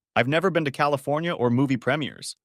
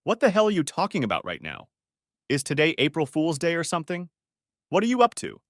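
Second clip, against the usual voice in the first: higher, incredulous protest; baffled disbelief; 5 semitones higher than usual. Acted. Paul denies ever being in California, incredulous. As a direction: scoff at the absurd claim.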